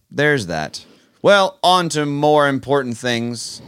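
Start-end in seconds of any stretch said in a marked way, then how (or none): 1.2-3.6 slow, louder mock-grand segue; grand announcement. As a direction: announce it like big news.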